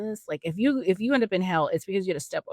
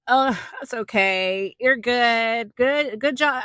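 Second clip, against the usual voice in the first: mock forgiving; 5 semitones higher, 3 dB louder, much slower than usual. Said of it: "Would you be like".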